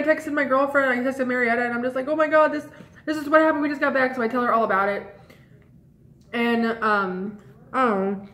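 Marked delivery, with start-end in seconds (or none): 2.1-4.1 excited gush. Retold or imitated. Excitedly texting her girlfriend.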